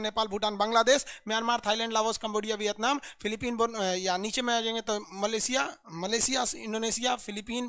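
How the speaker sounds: rattling off the country list at speed; quick classroom drill recitation; rapid-fire recitation. Shown as a demonstration. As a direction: reel off the names fast like a drill. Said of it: "आप जहाँ हैं वहाँ पर जोर जोर से बोलिए, full speed में".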